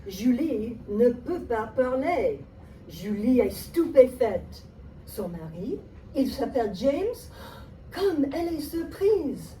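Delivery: teacher narrating the skit in a movie-trailer voice; movie narrator voice. Acted. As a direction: announce it like a film trailer. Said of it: "Movie voice".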